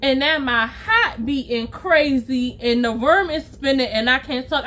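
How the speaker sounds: lightly voiced thick-tongued confession; a hint of a swollen-tongued friend; imitated slurred friend. Friend explaining symptoms, lightly mimicked impaired speech. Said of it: "why are you speaking the way that you're speaking".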